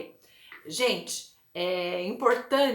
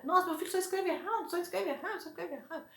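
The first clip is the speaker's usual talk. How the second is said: higher, quick, fretting parent voice fading to a murmur; worried parent; 5 semitones higher, 6 dB quieter, much faster than usual. Retold or imitated. Mother frets her child only spells wrong, mock worried. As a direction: imitate an anxious mother complaining, softer at the end.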